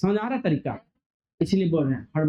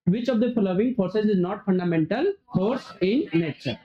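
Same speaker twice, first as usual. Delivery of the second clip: slow read-aloud; much slower than usual. Acted. Reads question aloud.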